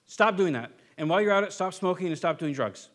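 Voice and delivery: scolding freak-out at a sinner. Retold or imitated. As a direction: snap at them like a nagging parent. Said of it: "have a freak out and say".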